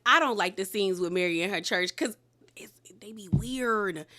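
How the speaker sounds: hushed, slowed confession; whispering an honest opinion; whispered aside. Real, not acted. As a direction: whisper it like a guilty secret. Confiding dislike of church scenes.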